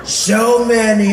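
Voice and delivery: loud, very slow, stretched words; drawn-out presidential phrase before the leap up; Donald Trump, low take. Acted. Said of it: "it was low".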